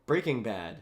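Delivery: low, deliberate "Breaking Bad"; down-and-up rhythm. Shown as a demonstration. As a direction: model the tune of "Breaking Bad", down and up. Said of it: "down and up".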